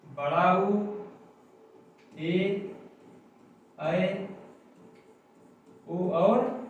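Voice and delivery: each long vowel held out clearly; long vowels demonstrated. Shown as a demonstration. Teacher demonstrating long vowels to students, drawn out. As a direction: sound out each vowel for the class. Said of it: "देखिए जैसे".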